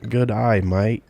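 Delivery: "Good eye, mate" with an Australian "maite"; Aussie "good eye, mate"; Aussie accent. Shown as a demonstration. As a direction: drop into a light Australian "G'day mate" sound. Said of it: "Aussie accent".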